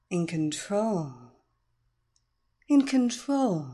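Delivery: slow, lulling chant; slow hypnotist voice. Acted. Hypnotist chanting over weights.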